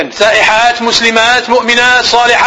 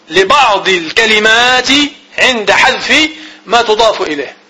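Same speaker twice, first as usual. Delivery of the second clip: slow, word by word, for note taking; dictating pace; slow dictation; slower than usual. Shown as a demonstration. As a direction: spell the definition out slowly so students can write. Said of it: "teacher dictating the definition slowly".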